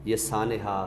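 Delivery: measured ghazal recital, a touch of weight. Acted. Recites full couplet.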